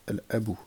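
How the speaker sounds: "Al-abu" with the L of the article heard; lam pronounced. Shown as a demonstration. Teacher repeating the moon-letter example, lam pronounced. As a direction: keep the L sounded in "Al-abu". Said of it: "on prononce le son du lem".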